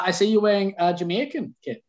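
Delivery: put-on Jamaican accent. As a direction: put on a joking Jamaican lilt. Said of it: "that was a lovely accent".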